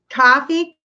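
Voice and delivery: New York "Coffee" with a long open "caw"; New York accent. Shown as a demonstration. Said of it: "Is that what it's like?".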